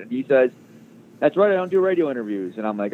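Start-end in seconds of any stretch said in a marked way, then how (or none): 1.2-2.6 high mock boss voice; lightly voiced tycoon saying no; imitating a curt refusal. Steinbrenner refusing radio interviews, pitched high.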